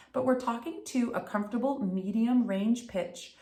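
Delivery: usual speaking voice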